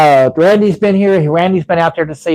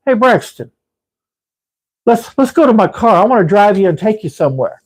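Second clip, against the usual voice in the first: Sal's voice; 4 semitones higher than usual. Retold or imitated. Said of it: "Okay, he talks like that".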